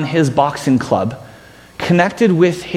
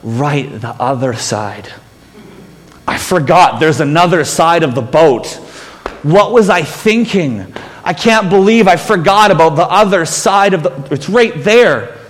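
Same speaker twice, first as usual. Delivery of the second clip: sarcastic mutter. Acted. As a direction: roll your eyes at the advice. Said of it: "maybe sarcastically under their breath".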